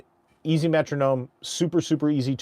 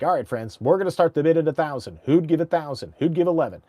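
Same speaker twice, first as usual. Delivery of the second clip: slow auction start; 3 semitones higher, faster than usual. Shown as a demonstration. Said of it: "I'll start slow".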